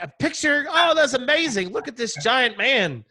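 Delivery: high, gushing, amazed; excited stranger. Retold or imitated. Stranger handing over baby, high gushing excitement. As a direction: gush over the giant man.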